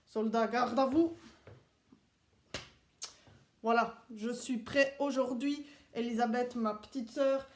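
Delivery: a hint of a strict army instructor addressing recruits; Swiss soldier teacher. The speaker as a Swiss soldier teaching the kids, lightly stern.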